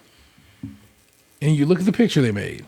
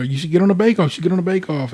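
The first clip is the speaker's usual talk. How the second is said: higher, nagging repeated urging; insistent urging; 4 semitones higher, faster than usual. Retold or imitated. Neighbor always telling her to try out, imitated insistent urging. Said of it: "was always telling her".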